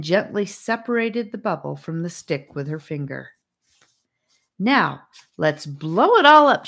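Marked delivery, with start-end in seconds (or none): 4.6-6.7 louder, eager invitation; rally the children to join in; a cheerful call to action. A narrator's reading. Inviting everyone to blow.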